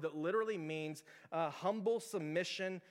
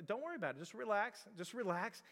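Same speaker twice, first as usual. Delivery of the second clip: soft, higher-pitched coaxing; reassuring dad; 4 semitones higher, 3 dB quieter than usual. Retold or imitated. Dad coaxing his son at bedtime, mildly reassuring. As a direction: gently soothe a stuck child.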